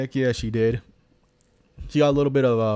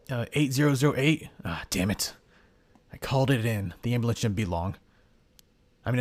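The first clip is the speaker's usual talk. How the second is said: startled young hero, lightly voiced; 4 dB quieter than usual. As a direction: play the hero puzzled and uneasy.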